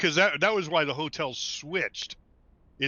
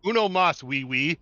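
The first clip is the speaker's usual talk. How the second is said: mock Spanish accent; 3 semitones higher, 4 dB louder than usual. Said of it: "when I do a Mexican accent".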